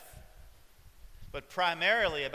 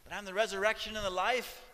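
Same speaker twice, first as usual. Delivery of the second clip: higher, gentle pleading reminder; Jesus reminding; 4 semitones higher than usual. Retold or imitated. Jesus to Martha, a gentle pleading reminder. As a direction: coax her to believe. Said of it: "Jesus had to remind her".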